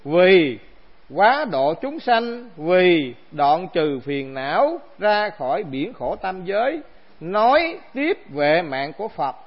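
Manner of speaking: slow, measured reading-out of scripture; formal text recitation. Acted. Teacher reading the text to his assembly, slow formal recitation. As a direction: recite each phrase slowly, with weight.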